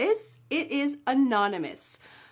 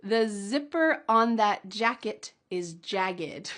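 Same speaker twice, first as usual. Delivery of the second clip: slow model sentence. Shown as a demonstration. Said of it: "Can you say it with me?".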